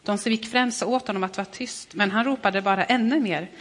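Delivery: measured reading of a Bible passage; scripture reading. Acted. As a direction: read the gospel story aloud, steady and clear. Reads the gospel passage aloud.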